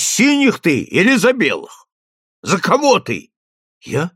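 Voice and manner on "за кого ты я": usual speaking voice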